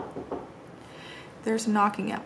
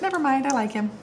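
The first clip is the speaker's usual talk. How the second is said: higher-pitched breezy dad quote; retold change of heart; 7 semitones higher than usual. Dad who spent time with his daughter's husband, imitated change of heart.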